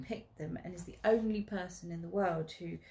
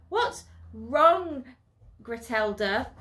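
louder, teasing giggly question; giggle; 5 semitones higher, 9 dB louder, slower than usual. Acted. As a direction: taunt her with a giggle. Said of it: "I giggle".

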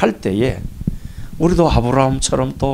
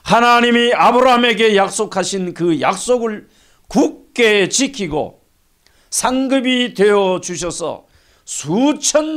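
preaching; 8 semitones higher than usual. Real, not acted. Pastor telling how God kept his promise to Abraham, preaching. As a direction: preach it out high, stretching key words.

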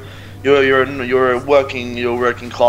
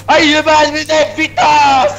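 mock angry yell; 12 semitones higher, 6 dB louder, slower than usual. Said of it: "He's like".

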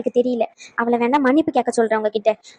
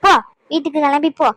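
put-on louder, higher scolding of a child; angry scolding; 4 semitones higher, 4 dB louder than usual. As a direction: drive the kid away harshly. (கோபமாக குழந்தையை திட்டுதல்)

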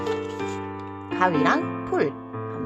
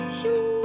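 high whoosh sound; 13 semitones higher, 3 dB quieter, much slower than usual. Acted. Boomerang whoosh.

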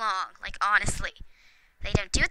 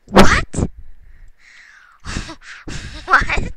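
surprised what; 5 semitones higher, 6 dB louder than usual. Real, not acted. Disbelief at the game.

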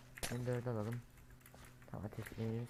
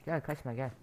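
shouting after him; 4 semitones higher than usual. Real, not acted. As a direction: call him back, then shout the last word. Chasing an enemy player. (kaçan oyuncunun arkasından bağırarak)

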